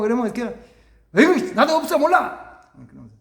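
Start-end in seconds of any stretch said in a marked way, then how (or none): 1.2-2.6 loud, high weary complaint; sighing, put-upon dad; exasperated groan. Retold or imitated. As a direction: throw up your hands like a tired father.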